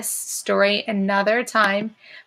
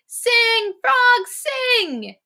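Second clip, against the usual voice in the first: much higher, louder excited call; excited crowd; 13 semitones higher, 3 dB louder, much slower than usual. Shown as a demonstration. Teacher rereading, crowd excitedly urging Frog to sing. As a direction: cheer Frog on. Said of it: "I bet they're really excited".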